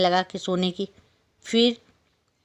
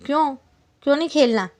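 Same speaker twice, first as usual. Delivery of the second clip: pleading fly; 8 semitones higher, 4 dB louder, faster than usual. Acted.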